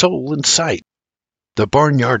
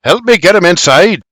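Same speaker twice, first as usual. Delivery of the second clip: loud, raised command; barked order; 5 semitones higher, 5 dB louder than usual. A narrator's reading. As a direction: bark for help. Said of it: "he barks".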